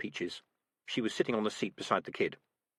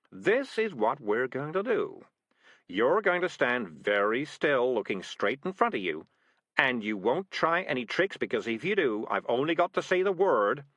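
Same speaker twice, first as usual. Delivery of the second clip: commanding cat; 3 semitones higher, 3 dB louder than usual. Acted. Cat Morris giving orders.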